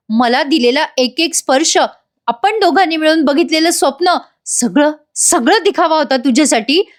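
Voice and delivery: mildly voiced betrayed lover pressing for an answer; heartbroken lover's reproach. Ashwin confronts his deceiving lover, mildly hurt and pleading. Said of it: "Ashwin आला ... आणि म्हणतो".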